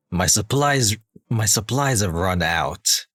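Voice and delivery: low, slow villain voice; slow, menacing villain read; villain voice impression. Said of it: "let me see if I can do a good impression of, of his English V A".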